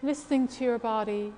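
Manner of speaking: calm, unhurried guidance with long pauses; guided breathing meditation. Real, not acted. Leads a breathing exercise.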